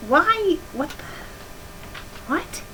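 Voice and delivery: rising incredulous questions; baffled. Real, not acted. Reader baffled by the fanfic's dashes, rising. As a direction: puzzle over the odd punctuation.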